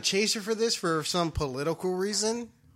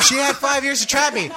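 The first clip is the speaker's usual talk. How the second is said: louder laughing echo; 7 semitones higher, 4 dB louder than usual. Real, not acted. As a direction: repeat it high, through a laugh. Repeats whispered line, laughing.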